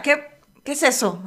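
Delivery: slow, halting disbelief; taken aback. Retold or imitated. Reacting at the open door to a smell, slow disbelief. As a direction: ask it slowly, stumbling on the first word. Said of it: "Así".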